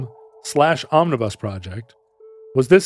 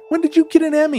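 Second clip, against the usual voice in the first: high, incredulous squeak; mock surprise; 13 semitones higher, faster than usual. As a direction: gasp it out in fake shock. Mock shock at Emmy.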